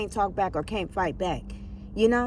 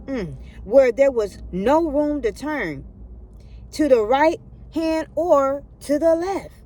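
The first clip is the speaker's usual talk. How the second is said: preaching scripture reading; 2 semitones higher, 3 dB louder than usual. Acted. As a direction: lay each phrase down like scripture.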